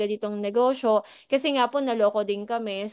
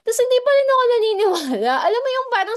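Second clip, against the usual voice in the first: much higher, louder and fast, bursting out; excited outburst; 11 semitones higher, 7 dB louder, faster than usual. Real, not acted. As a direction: blurt it out in a rush of disbelief. Exclaims own disbelief to viewers.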